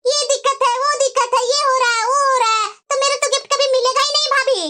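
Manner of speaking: indignant, nagging sister-in-law; angry taunting. Acted. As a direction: throw the complaints back as taunts. ननद भाभी को ताने देती. (चिढ़कर ताने मारते हुए)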